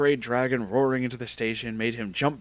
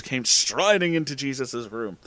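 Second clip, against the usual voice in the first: plain reading voice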